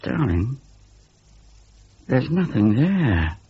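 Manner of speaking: put-on calm the child gently; a touch of tender comfort; gentle. A narrator's reading. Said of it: "said his mother gently".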